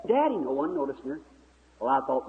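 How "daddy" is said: put-on high-pitched lost girl's call; imitated plaintive calling, pitched way up; imitated hollering. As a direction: holler high for a missing father.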